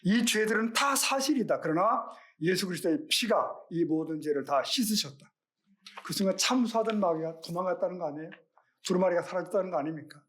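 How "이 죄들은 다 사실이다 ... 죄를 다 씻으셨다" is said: mildly raised, emphatic retold cry, settling toward the end; loud declaration. Luther answering the devil's record of his sins, mild defiant outcry. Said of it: "큰 소리로 이렇게 외친 거죠".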